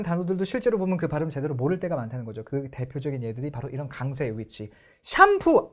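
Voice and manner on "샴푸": 샴푸 pitched high on the first syllable; the wrong 샴푸, raised and pushed; wrong stress. Shown as a demonstration. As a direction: hit 샴푸 up front the wrong way. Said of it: "아무도 못 알아듣습니다".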